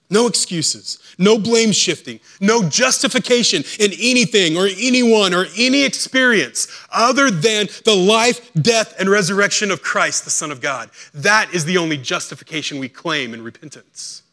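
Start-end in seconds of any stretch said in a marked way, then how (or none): 0.1-10.9 loud, high, rising sermon climax; preaching at full force. Acted. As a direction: build the preaching to a ringing cry.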